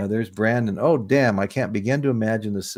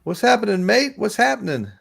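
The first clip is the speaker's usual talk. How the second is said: cheery greeting; 11 semitones higher, 3 dB louder than usual. Real, not acted. Greeting viewers in Aussie style.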